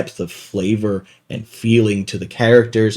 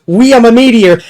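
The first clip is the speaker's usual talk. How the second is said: high, loud mock battle cry; 9 semitones higher, 8 dB louder than usual. Player cannonballing from a plane, high battle cry. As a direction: cry it out like a daredevil charging. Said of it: "his battle cry was".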